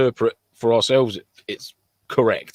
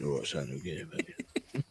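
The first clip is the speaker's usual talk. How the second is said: put-on London accent; 6 semitones lower, 14 dB quieter, much slower than usual. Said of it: "got a right fucking London accent".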